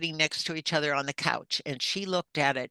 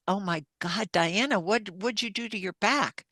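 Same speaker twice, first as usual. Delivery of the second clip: shocked; 4 semitones higher than usual. Retold or imitated. Seeing welts on sister.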